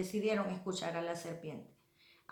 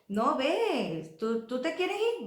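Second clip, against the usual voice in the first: higher, drawn-out mock permission; God letting go; 5 semitones higher, 4 dB louder, slower than usual. God telling a believer to go, lightly acted send-off. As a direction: lightly act out a lilting send-off. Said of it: "tú te estás alegrando porque te dice".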